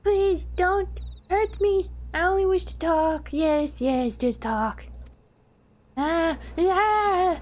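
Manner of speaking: high timid kobold begging; scared little creature asking to talk; squeaky frightened kobold plea. Acted. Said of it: "My kobold voice".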